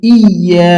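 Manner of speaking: "ইয়া" as iy-yaa, with a held double y; tashdid on the y. Shown as a demonstration. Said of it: "ইয়ার উপরে তাসদিদ আছে".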